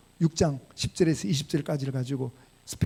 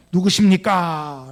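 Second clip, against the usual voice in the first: slow quote; 7 dB louder, much slower than usual. Retold or imitated. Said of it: "사울이 그러잖아요".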